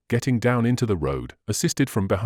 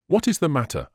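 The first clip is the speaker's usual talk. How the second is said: quavering; 5 semitones higher than usual. Acted. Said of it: "with mildly quavering speech".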